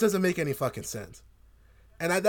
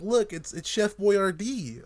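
lightly imitated Joel, higher and drawn out; a hint of weird happy Joel; 4 semitones higher, much slower than usual. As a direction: lightly mimic an actor's odd happy line, slowly. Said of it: "happy Joel voice coming out of Pedro".

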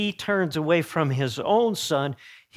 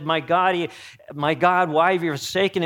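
anguished cry; 3 semitones higher, 5 dB louder than usual. Acted. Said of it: "when Jesus said".

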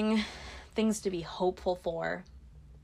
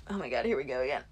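talking while burping; 6 semitones lower, much faster than usual. Real, not acted. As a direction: voice strained by a burp. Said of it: "Oh, excuse me".

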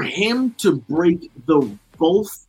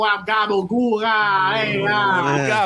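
high hammy Italian-American voice; Italian mobster accent; 4 semitones higher, much slower than usual. Pretend. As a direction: play a cartoon mobster. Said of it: "with your Italian accent".

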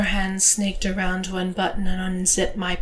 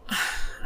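soft breathy sigh; quiet, voiceless exhale; 6 dB quieter than usual. A narrator's reading. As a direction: let out a small sigh. Breath before narrated whimper.

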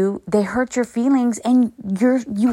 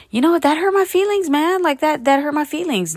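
hurt admission; 8 semitones higher than usual. Acted. Models openly admitting hurt feelings.

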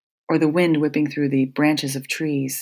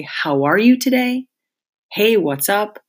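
bright, higher friendly hello; cheery greeting; 5 semitones higher than usual. Pretend. Speaker showing listeners how to greet strangers, cheerfully higher.

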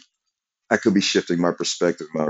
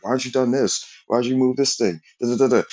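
higher-pitched mimicry of a pushy supervisor; weird pressuring; 5 semitones higher than usual. Supervisor leaning on workers with questions, weird pressuring. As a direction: pester them with mock questions, pitched up. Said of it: "pressure 'em in a weird way".

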